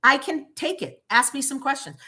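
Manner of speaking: sarcastic. Retold or imitated. To the silent officers, a sarcastic mock apology. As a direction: fake sorry, daring them to speak. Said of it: "So I'm like".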